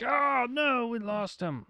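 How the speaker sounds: panicked high voice. Retold or imitated. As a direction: squeak it out in mock alarm. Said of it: "So they're like".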